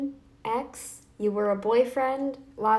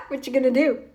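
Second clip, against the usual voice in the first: snarky dare; 2 semitones higher, 5 dB louder, faster than usual. Real, not acted.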